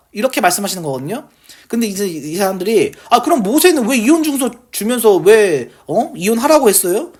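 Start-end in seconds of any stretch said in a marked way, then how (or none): 3.1-7.1 mock-protesting, slightly higher pitched; lightly acted indignant questioning; argumentative challenge. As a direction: push back as doubters demanding an explanation. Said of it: "이렇게 따지는 거죠".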